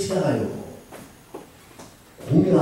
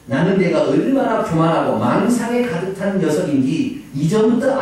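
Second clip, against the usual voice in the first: brother's scolding; 5 semitones higher, 4 dB louder than usual. Retold or imitated. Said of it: "형이 야단을 쳐요".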